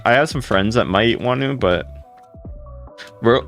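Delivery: ordinary talk, nothing marked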